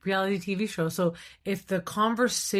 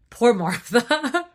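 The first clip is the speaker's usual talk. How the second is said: slow, loud sympathy; drawn-out mock pity; 5 semitones higher, 7 dB louder, much slower than usual. Real, not acted. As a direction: stretch it out in pity.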